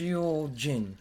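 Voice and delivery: put-on lightly Japanese-accented name; a hint of Japanese accent. Stumbling over the name, a touch of Japanese accent. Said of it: "sound like I'm saying it in a Japanese accent".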